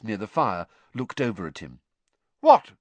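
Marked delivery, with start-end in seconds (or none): 2.4-2.7 high, loud call; calling back. A narrator's reading. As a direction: shout it back across the room. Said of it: "she called back".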